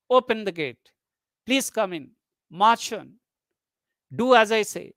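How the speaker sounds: short commands, each ending on a fall, down on "gate", "in", "on", "say". Shown as a demonstration. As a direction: give orders, dropping the pitch at "gate", "in", "on", "say". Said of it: "are spoken in falling tone".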